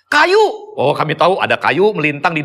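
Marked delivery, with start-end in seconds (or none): 0.1-0.4 high, loud call from far ahead; distant warning yell. Retold or imitated. Hiker calling back from far ahead through forest, high yell. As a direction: shout it up high so the group hears. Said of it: "cuma dengar suaranya doang".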